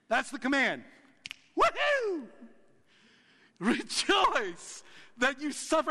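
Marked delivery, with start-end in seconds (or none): 1.6-2.3 a high ironic woohoo, much higher; mock cheer. 3.6-5.9 slow, higher, ironic sing-song with "suffer" drawn out; mock cheerful. Ironic repeat after mock cheer.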